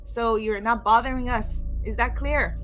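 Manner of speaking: high-pitched mimicked voice, calling out firmly; shouting as Bella. The speaker mimicking Bella to those in the green room, high shout. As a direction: call into the next room in a high put-on voice. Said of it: "will just shout into the green room".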